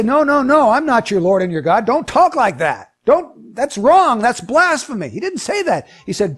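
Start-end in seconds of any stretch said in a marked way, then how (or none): 0.0-5.1 hammed-up rebuke, higher on the first protest; mock scolding. Jesus hypothetically correcting Thomas for worship, mock scolding. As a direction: pretend to be scandalized and cut them off.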